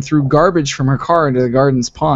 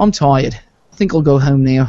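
put-on easygoing, relaxed New Zealand accent. Imagining someone ending a long run across the country, in a New Zealand accent. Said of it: "with his New Zealand accent".

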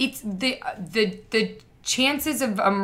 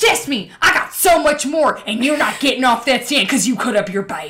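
mock prosecutor yelling, higher and louder; 3 semitones higher, 6 dB louder than usual. Retelling a prosecutor shouting at a mother on the stand: imitating a screaming prosecutor.

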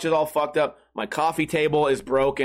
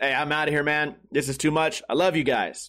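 put-on, mock-chipper, cheerful tone. Retelling what Troy said as he left, imitating a chipper tone. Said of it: "Just chipper".

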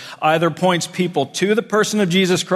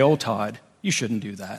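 very low, soft, gentle chiding tone; 8 semitones lower, 7 dB quieter than usual. Recalling the woman to his right, the speaker imitates her gently chiding him. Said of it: "would gently chastise me, gently".

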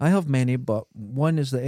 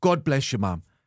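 mock elderly man's voice. Retelling Christmas lunch, imitating granddad's way of talking. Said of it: "he used to talk like this".

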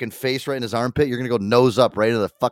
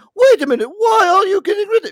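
shocked, surprised, upset voice, higher and louder; 7 dB louder than usual. Retelling the host's reaction to an elimination: imitating a surprised, upset host. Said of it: "so surprised and, like, upset".

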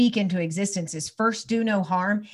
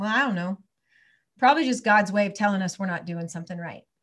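mock cool, calm, even-tempered, matter-of-fact tone. Retelling a boy's reply to her angry question: imitating Roman speaking calmly. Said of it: "he looked at me real calmly".

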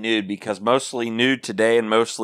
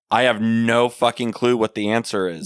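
usual speaking voice

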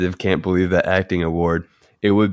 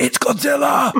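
shrill, very high put-on stereotypical American yell. Describing an american character looking out of a helicopter, doing a stereotypical american shout. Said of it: "in the most stereotypical way shouts".

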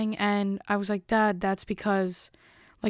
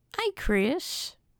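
put-on creepy, high, sickly old man character voice; 5 semitones higher than usual. Comparing how she sounds to a Family Guy character, doing the Family Guy sickly old man voice. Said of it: "that sickly old man".

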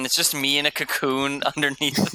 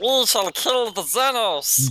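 squeaky, high, little chipmunk voice; 7 semitones higher than usual. Imagining guinea-pig warriors shouting a battle cry, in a chipmunk voice. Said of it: "in like chipmunks' voices".

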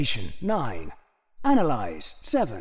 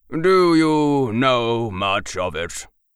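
polished, deep, refined, cultured manner of speaking; 4 semitones lower, 5 dB louder than usual. A man approaching the narrator asks a question, in a deep, refined, cultured voice. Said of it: "he asked in a deep, refined and cultured voice. / I was organizing them by priority when a man approached me. / he asked in a deep, refined and cultured voice. / he asked in a deep, refined and cultur".

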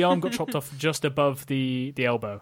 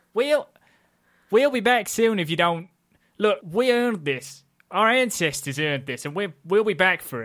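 put-on rural Appalachian hill accent, pitched up; 5 semitones higher, 4 dB louder than usual. Voicing a character in a tabletop game, appalachian accent. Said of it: "I was trying to do Appalachian".

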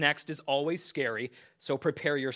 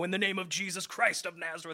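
put-on gruff Southern preacher voice, much higher pitch; 3 semitones higher, 3 dB quieter than usual. Retelling a childhood dream about extraterrestrials, the speaker prays like a gruff-voiced southern preacher. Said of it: "talking like a, you know, a gruff-voiced southern preacher".

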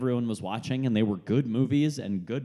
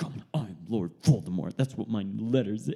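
mock moody teenager voice. Imagining Tom Riddle reacting to his own anagram, mock-angsty Tom Riddle. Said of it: "I imagine Tom Riddle sitting there in his angst".

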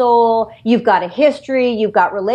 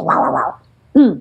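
small, tiny cartoon roadrunner voice. Showing the voice the speaker always wanted to be hired for, little voice. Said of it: "it's just a little voice like this".

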